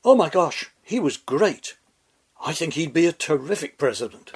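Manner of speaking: put-on lisping delivery of a quote; lisped quote. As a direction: imitate an admiring ex-lover with a lisp. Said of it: "Lisped Ms Taylor to the New York Post".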